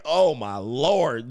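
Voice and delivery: slow, drawn-out exclamation of dismay; mock dismay. Man reacting to his date undressed, slow mock dismay. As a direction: stretch out each word in comic disbelief.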